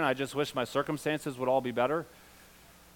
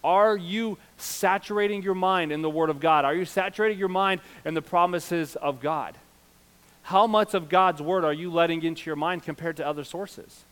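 raised pulpit questioning; forceful preaching; 5 semitones higher, 5 dB louder than usual. Real, not acted. Pastor questioning church about God's Word, insistent preaching. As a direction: put the question squarely to the congregation.

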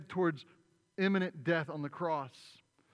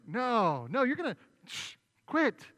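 flustered hushing; 8 semitones higher, 8 dB louder than usual. Retold or imitated. Peter hushing the accuser.

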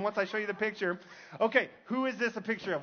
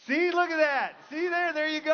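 higher and louder, delighted showing off the picture; excited reveal; 7 semitones higher, 5 dB louder than usual. Real, not acted. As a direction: crow with delight at the big reveal. Revealing the lookalike to audience.

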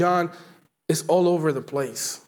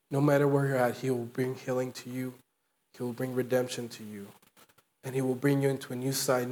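softer, tender invitation to believe; soft closing appeal; 2 semitones lower, 5 dB quieter than usual. Acted. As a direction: draw them in gently, like a prayer.

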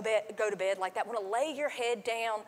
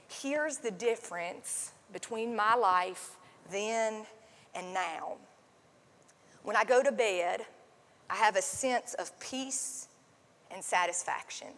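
slow, lower and softer, calm and wise; deep content wise voice; 3 semitones lower, 4 dB quieter than usual. Retold or imitated. Pastor imitates the podcast man, lightly voiced slow calm sage. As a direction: speak like a wise old man at peace. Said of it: "It's this deep, content, wise voice".

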